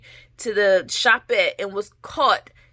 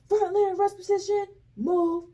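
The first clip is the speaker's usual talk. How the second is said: drill sergeant command; 9 semitones higher, 4 dB quieter than usual. Retold or imitated. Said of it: "and they're like".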